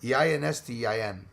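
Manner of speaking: "E I N S T E I N" as run-together English letter names; sounded-out letters. Shown as a demonstration. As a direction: spell "E I N S T E I N" so it flows like a German-sounding sentence. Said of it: "it's with a German accent".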